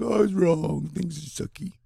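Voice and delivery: high whiny lament, fading at the end; mock crying. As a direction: pretend to sob over being wrong. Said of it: "I won't be crying, like".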